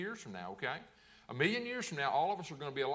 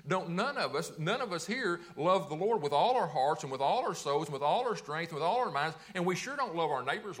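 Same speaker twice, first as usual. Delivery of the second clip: preaching louder; 4 dB louder than usual. Real, not acted. Preacher pressing the point.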